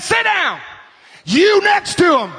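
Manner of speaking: high mock preacher's order; retold command. Camp preacher ordering the boys about, mock shout. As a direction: order him high and sharp, imitating.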